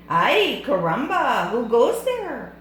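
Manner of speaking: loud, high caramba cry; bold Spanish-accented challenge. Acted. Kitten hero challenges the bandits, loud bold call. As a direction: call out boldly like a swashbuckler.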